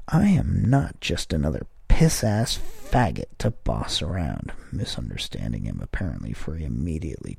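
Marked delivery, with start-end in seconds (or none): 0.1-4.5 louder, sudden outburst; a startled man blurting back at his neighbour; blurted out. A narrator's reading. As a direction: blurt it before thinking. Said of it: "for I blurted".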